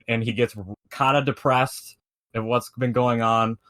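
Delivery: ordinary talk, nothing marked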